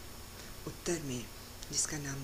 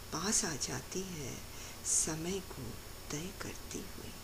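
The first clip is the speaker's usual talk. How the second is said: measured, expressive verse reading with pauses; poetry recited to an audience; poem recitation. Acted. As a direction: recite it line by line, lingering on the images.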